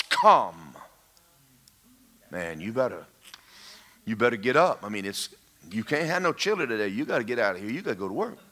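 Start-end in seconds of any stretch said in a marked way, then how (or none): 2.3-8.4 low, soft talking to yourself; thinking aloud under the breath; muttered inner thoughts. Acted. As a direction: mumble your own nagging thoughts, low and quiet. Acting out urgent morning thoughts.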